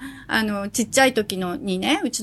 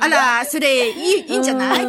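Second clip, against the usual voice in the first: auntie talk. Retold or imitated. Schoolboy talking like his mother, lightly imitated auntie talk. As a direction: lightly mimic a boy using ladylike phrases. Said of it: "おばさん言葉とか".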